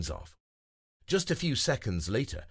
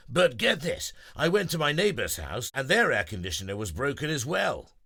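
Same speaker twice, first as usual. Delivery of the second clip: higher, louder eager deer voice; excited deer; 4 semitones higher, 4 dB louder than usual. Acted. Denver telling friends about the neighbor, eager. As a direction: share the gossip eagerly.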